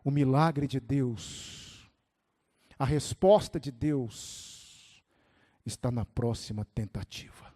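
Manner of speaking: low, slow, weighty quote; hushed, measured pronouncement; professor's solemn saying. Retold or imitated. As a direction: quote a teacher slowly and quietly, drawing out each phrase. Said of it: "Ele disse assim".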